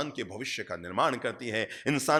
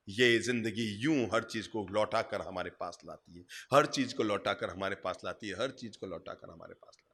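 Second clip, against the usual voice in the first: low, soft, fading with each repeat; hushed refrain; 7 semitones lower, 8 dB quieter than usual. Real, not acted. Preacher repeats how life returns everything, hushed and fading. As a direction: let the repeated line sink away almost to nothing.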